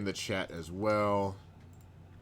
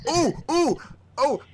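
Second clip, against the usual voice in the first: very high, louder ooh of delight; excited squeal; 6 dB louder than usual. Real, not acted. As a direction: squeal at a friend showing up. Epic arrives in chat.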